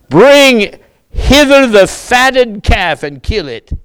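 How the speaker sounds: the father calling out high and loud to his servants; joyful father. Acted. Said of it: "Notice what his father says".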